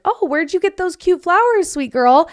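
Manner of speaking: put-on high, sugary voice for a little girl; sweet cashier. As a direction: coo at the child like a friendly cashier. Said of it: "the cashier at Chick-fil-A was like".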